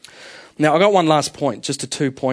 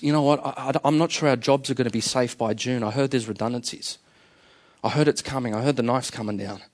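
hushed, softer gossip at the lunch table; mock whisper; 4 semitones lower, 5 dB quieter than usual. Worried coworker passes on a rumour, hushed and soft. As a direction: lean in and drop the voice like sharing a rumour. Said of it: "Someone whispers".

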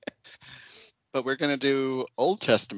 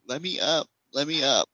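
slightly raised, mock-pleading dog voice; dramatic dog; 4 semitones higher than usual. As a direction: plead like an overdramatic pet. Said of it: "like, all dramatically".

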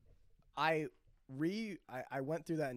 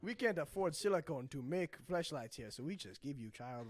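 put-on African accent; 3 semitones lower than usual. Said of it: "doing an African accent".

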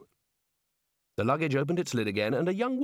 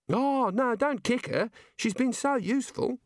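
put-on higher young woman, unhurried and matter-of-fact; Neilette's voice; 11 semitones higher than usual. Girl in the luggage asks Rincewind for help, high voice. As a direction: voice the girl asking for a hand.

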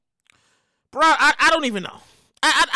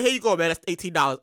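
lower, offhand mock bartender voice; 13 semitones lower, 4 dB quieter, faster than usual. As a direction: toss it off like a lazy bartender serving junk. Bartender voiced handing over drink.

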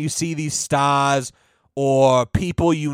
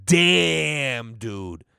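disappointed damn dude; 2 semitones lower than usual. Retold or imitated. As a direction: let it fade out in disappointment. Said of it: "and then you go".

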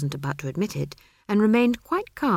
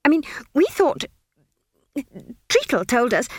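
high, flustered, stammering wizard; a jittery young wizard voice; nervous wizard; 7 semitones higher, 5 dB louder than usual. A narrator's reading.

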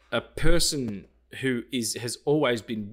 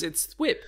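web sound; 5 semitones higher than usual. Shown as a demonstration. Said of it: "if you were to write out how that, how it sounds".

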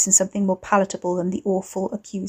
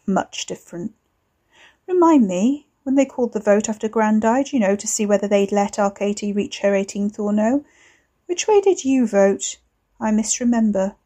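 ugly sneer. Acted. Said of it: "Ricky chuckled, and it sounded ugly".

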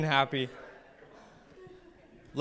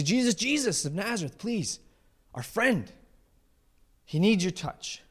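pleading; 5 semitones higher than usual. Acted. Crowd begs Jesus to heal friend.

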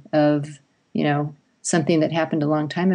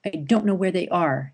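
put-on defiant child. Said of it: "all this attitude comes out".

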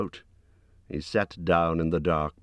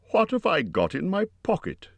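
much higher, insistent question; said louder; 13 semitones higher than usual. A narrator's reading. Bilbo sticking to his question for Gollum, higher and more insistent. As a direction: put the question more forcefully. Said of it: "he said louder".

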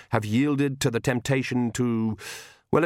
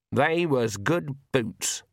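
put-on slow, rueful old woman; 2 semitones higher, much slower than usual. A narrator's reading. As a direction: mourn the lost boots. Granny mourns boots.

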